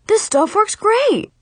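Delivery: high, slow, loud boast; proud boast. A narrator's reading. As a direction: brag like a proud salesman. Dad's proud hammy boast.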